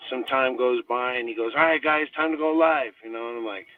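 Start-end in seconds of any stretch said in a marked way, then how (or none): 1.6-2.9 lightly imitated coach call, raised pitch. Coach telling the guys to go live, calling out. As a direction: announce it to the squad, pitched up.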